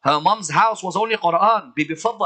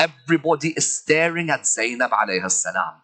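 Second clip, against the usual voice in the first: ordinary delivery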